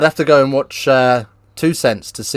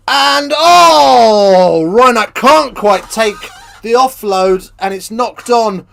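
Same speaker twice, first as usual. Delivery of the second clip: higher, loud, slowed call of a dropped pass; excited commentary; 8 semitones higher, 5 dB louder, slower than usual. Acted. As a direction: groan it out like a commentator. Play-by-play commentary burst.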